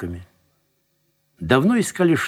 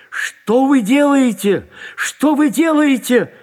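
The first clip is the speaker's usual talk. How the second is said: high, slow, ringing cry; booming outcry; 12 semitones higher, 5 dB louder, slower than usual. A narrator's reading. Detained man appeals to departing lieutenant, booming in despair. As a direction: cry out like a tolling bell. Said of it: "вскричал Тверетинов голосом гулким".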